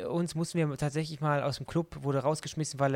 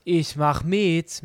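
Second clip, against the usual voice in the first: put-on drawn-out drunk offer; 6 dB louder, much slower than usual.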